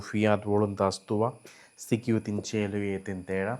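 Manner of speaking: measured, reverent recitation of the Latin Pater noster; slow devotional prayer in Latin. Acted. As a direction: chant the Our Father slowly and solemnly. Latin Our Father prayed slowly.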